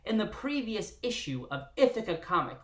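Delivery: put-on old-timey announcer voice on Ithaca; old radio announcer. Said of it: "in an annoying, old-timey radio voice".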